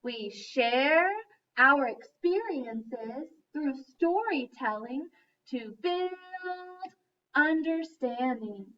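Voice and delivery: slow, deliberate group recital; teacher reciting the motto along with students; unison recitation. Shown as a demonstration. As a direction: say it slowly together with the class. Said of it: "Do it with me this time".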